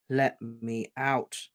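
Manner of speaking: very slow, cold, calm demand; icy slow demand. Acted. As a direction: say it coldly, slowly. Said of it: "in a voice that was cold and almost as calm".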